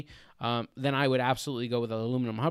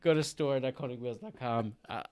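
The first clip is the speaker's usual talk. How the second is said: laughing. Real, not acted. Signing off while laughing.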